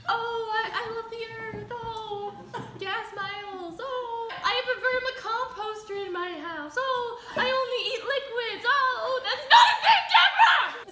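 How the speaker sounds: hammed-up hippie sister; mocking Deborah. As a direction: parody the smug sister up high. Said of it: "she thinks".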